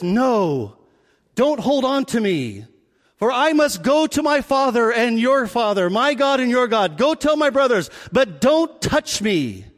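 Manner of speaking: lightly acted stage-drama delivery; mildly theatrical, measured refusal; Jesus in Easter plays. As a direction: declaim it like a church play. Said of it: "here's how it's portrayed in most dramas".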